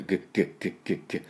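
quick back-of-throat gu gu gu; throat G sound. Shown as a demonstration. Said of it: "喉の奥で".

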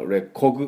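レコグ with a fully sounded Japanese コ; over-sounded katakana reading. Shown as a demonstration. Teacher showing what not to say, レコグ in Japanese syllables. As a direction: say レコグ with every syllable given full value. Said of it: "ここはレコグと言いません".

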